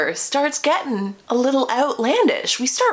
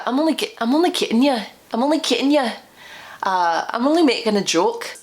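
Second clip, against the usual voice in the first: mock Scottish accent; 4 semitones higher, faster than usual. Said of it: "I'm really bad at accents".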